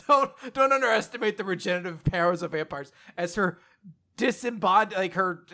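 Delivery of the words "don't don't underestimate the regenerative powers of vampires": higher, mock-haughty boast; sassy back talk. Vampire's severed head to her attacker, sassy. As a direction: sass back, a little hammed-up. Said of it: "the sassy back talk".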